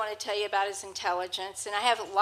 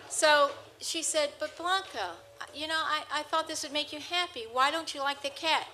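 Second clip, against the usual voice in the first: higher, coaxing plea to the parrot; pleading owner; 4 semitones higher than usual. Retold or imitated. Hope coaxing Blanca to like the new cat, higher pleading voice. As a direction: coax the bird like a hurt owner.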